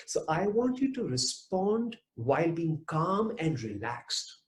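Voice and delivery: ordinary talk, nothing marked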